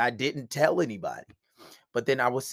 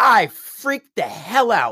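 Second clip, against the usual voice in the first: plain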